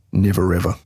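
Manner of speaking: "Never ever" run together as one word; words blended together. Shown as a demonstration. Teacher warning learners to be careful, "Never ever" blended into one word. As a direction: link the R of "Never" straight into "ever". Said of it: "They sound like one word".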